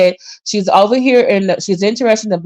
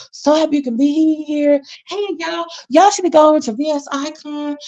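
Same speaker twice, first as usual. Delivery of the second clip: newscaster voice; 4 semitones higher than usual. Retold or imitated. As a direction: switch on the smooth TV-host manners. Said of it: "I call it the newscaster voice".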